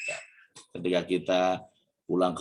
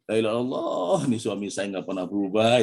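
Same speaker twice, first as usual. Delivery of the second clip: exasperated outburst, a little raised in pitch; acted angry wife; 2 semitones higher than usual. Wife grumbling about husband who never changes, acted anger. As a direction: exclaim it as a mildly fed-up complaint. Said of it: "Lagi marah".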